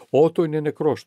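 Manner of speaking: cold, hard-edged statement with sparks in the eyes. A narrator's reading. Victoria coldly tells Johannes Otto is dead, icy voice. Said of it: "με ψυχρή φωνή".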